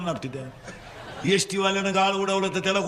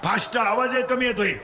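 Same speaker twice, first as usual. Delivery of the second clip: call-and-response preaching; 5 semitones higher than usual. Real, not acted. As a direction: leave the end rising for them to finish. (पोरांकडून वदवून घेणारा चढा सूर)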